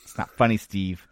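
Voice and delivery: laughing mock scold; anger turning to laughter. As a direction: try to scold but keep laughing.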